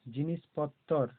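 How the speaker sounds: জিনিসপত্তর with a long, firm ত্ত; doubled ত. Shown as a demonstration. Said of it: "তয়ে ত আছে ওই জন্য পত্তর".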